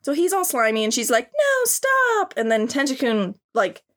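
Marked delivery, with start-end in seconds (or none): 1.3-2.3 high, put-on girly alarm; high mock girl voice, startled; mock anime girl. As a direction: play a startled cartoon heroine. Voicing the girl in the hentai.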